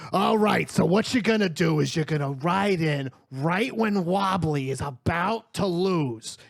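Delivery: a hint of a scheming fight fixer; lightly voiced beholder boss. Lellard briefs his imp on the rigged fight, lightly bossy. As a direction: lay out the plan like a small-time boss. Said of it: "he goes".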